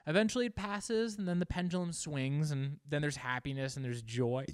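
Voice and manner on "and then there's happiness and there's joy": burping on the word joy; a small burp as you say joy; a burp slipping out on joy. Real, not acted. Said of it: "I'm sorry I burped on joy".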